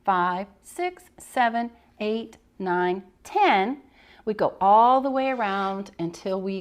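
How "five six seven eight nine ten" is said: counting aloud. Shown as a demonstration. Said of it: "we do one".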